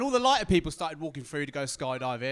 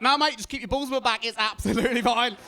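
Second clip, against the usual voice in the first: higher, louder, laughing insistence; laughing plea; 6 semitones higher, 7 dB louder than usual. Retold or imitated. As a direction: beg him through laughter. Begging him keep straps tight.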